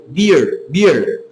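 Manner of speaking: "Beer" with a stretched E; drawn-out E. Shown as a demonstration. Teacher explains the double vowel, drawn-out E. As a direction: hold the E in "beer" before the R. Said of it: "tu espichou a letra E".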